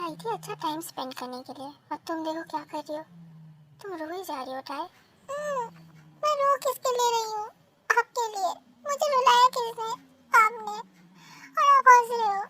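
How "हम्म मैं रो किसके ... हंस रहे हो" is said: high, loud tearful accusation. Acted. Crying girl blaming him for making her cry, tearful.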